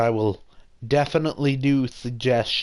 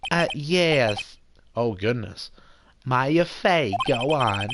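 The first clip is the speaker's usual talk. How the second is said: lightly voiced Jewish mother as lawyer; a hint of Jewish mother, self-important; slower than usual. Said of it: "I'll definitely do that voice a little bit".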